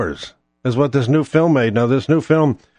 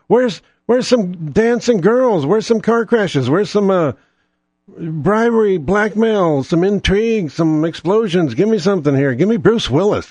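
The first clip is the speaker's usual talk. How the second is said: exasperated demand; 6 semitones higher than usual. Real, not acted. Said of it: "demanding action movie".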